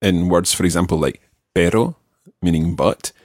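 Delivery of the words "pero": "pero" with one quick tongue tap; single tapped R. Shown as a demonstration. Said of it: "pronounce the single R".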